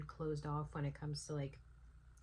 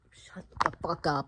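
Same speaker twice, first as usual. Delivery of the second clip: loud fed-up snap; loud exasperated outburst; angry retort; 8 dB louder than usual. Real, not acted. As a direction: tell him off, fed up.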